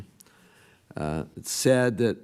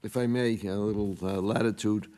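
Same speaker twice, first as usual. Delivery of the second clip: raspy whisper. Real, not acted. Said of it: "excuse my voice, I lost it today".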